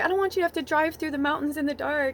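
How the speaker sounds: high, upset, tearful voice crying through words. Retelling own words to him at the time, acting out own past crying. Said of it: "And I was like crying".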